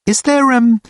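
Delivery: high, halting question; hesitant Richard. A narrator's reading. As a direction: grope for the question, high-pitched.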